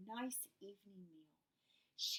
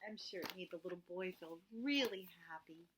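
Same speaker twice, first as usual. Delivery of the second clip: soft aside; 4 semitones lower, 6 dB quieter, faster than usual. A narrator's reading. Narrator aside, whispered.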